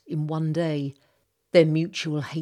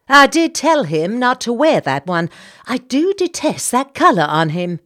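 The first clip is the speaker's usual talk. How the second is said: much higher, louder gossiping Southern lady; chatty society lady; 5 semitones higher, 12 dB louder than usual. Acted. Senator's wife introducing herself to the captain, high and gushing. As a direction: gush it out like a busybody hostess. Voices Mrs Bartlett.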